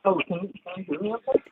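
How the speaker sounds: distant tinny phone line; bluetooth headset mic. Real, not acted. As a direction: sounds far from the phone. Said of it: "Can you get closer to your phone or take up me off Bluetooth?".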